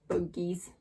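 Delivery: breathy secret whisper of the word; hushed whisper. A narrator's reading. Label read in hushed voice.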